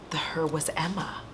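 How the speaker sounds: hushed dramatic reveal; whispering. Real, not acted. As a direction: whisper the twist.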